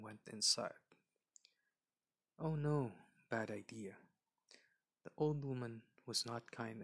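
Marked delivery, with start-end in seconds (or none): 2.4-2.9 alarmed aside. Acted. Narrator's aside to listener. 3.3-4.0 hushed aside to the listener; whispered warning aside. Acted.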